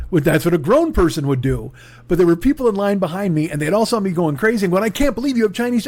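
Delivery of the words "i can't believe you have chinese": high-pitched, gushing delight; a buyer who's thrilled to find Chinese snacks; mock excited gush. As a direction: rave like you found a treasure. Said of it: "I was so excited".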